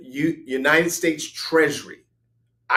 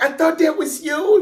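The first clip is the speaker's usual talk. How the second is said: her voice; 5 dB louder than usual. Retold or imitated. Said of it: "It's like".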